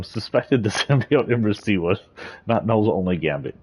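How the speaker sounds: giggling through a line; laughing while reading. Real, not acted.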